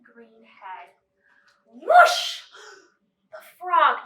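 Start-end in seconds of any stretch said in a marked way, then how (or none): 1.6-2.4 magic whoosh. Acted. Magic transformation sound.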